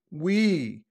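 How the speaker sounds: WE CANNOT, slow, high and loud; loud emphasis. Retold or imitated. Quoting an influencer who emphasizes cannot, loud stressed CANNOT. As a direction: punch each word of WE CANNOT, stretched out. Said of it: "thus I said it so loudly".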